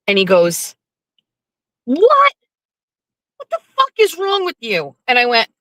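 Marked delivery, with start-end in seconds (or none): 1.9-5.0 a shocked squawk that turns into scolding; outraged disbelief. Retold or imitated. Jeff scolding his wife over cheeseburgers, with outraged disbelief.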